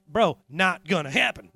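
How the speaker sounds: slow, unbothered refusal; lightly voiced donkey saying no; calm, dragging refusal; stubborn donkey. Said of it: "The donkey's like".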